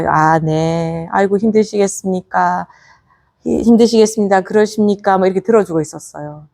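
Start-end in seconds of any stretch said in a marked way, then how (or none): 0.1-5.2 calm listening. Retold or imitated. Buddha hearing out an angry visitor, calm and sympathetic. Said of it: "가만히 듣고서".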